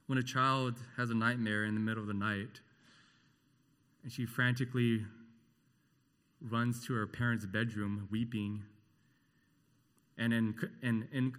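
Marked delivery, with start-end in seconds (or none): none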